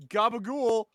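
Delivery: high, loud whoop building to a drawn-out yell; triumphant shout. Pretend. Player shouting down the game master's check, triumphant yell. Player crows after the roll.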